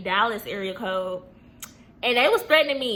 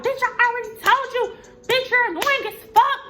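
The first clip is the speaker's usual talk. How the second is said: high-pitched mocking imitation of tearful ranting; exaggerated upset squeal, retold; mock crying; 11 semitones higher, 4 dB louder than usual. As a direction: imitate her crying rant, much higher and louder. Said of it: "And she's, like, crying".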